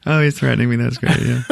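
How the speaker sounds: mock delight with a laugh running through it; laughing Goldblum imitation. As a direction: chuckle out the lines as a delighted Goldblum. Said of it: "doing the Jeff Bloom thing".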